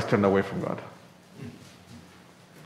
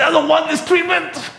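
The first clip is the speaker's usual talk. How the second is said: very high, strained whining plea; pleading in pain; 5 dB louder than usual. Pretend. Believer begs God to stop the painful treatment, high whine. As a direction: beg like a child who's hurting.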